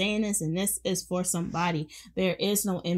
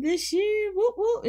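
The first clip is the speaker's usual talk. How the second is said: cheering whoop. Real, not acted. Host celebrating the first podcast of the year, high cheering whoops. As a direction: cheer like the crowd just scored.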